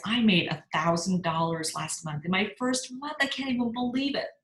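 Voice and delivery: imitating a thrilled new consultant; excited disbelief. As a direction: gush like you can't believe your luck. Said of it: "her excitement that was so contagious".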